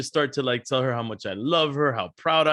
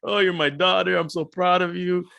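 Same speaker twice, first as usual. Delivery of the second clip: sentimental; 4 semitones higher than usual. Retold or imitated. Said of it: "all sentimental".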